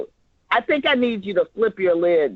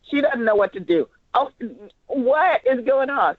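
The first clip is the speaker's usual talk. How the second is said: panicked; 3 semitones higher than usual. Shown as a demonstration. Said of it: "So that's what we need".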